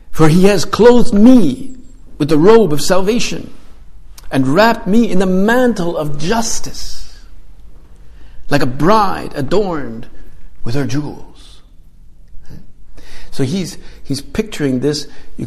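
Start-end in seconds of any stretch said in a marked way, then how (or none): 0.1-11.6 higher, slow proclaiming of the verse; solemn scripture reading. Acted. Preacher reads Isaiah to the congregation, slow and exalted. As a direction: lift the words up slowly, like proclaiming a psalm.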